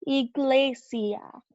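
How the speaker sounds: iglesia drawn out slowly, ee-GLEH-sya; slow Spanish word. Shown as a demonstration. Teacher slowly modeling iglesia for learners. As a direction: stretch iglesia out syllable by syllable.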